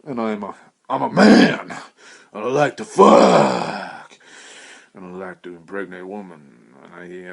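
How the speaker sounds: mock boast. Mock proclamation continues.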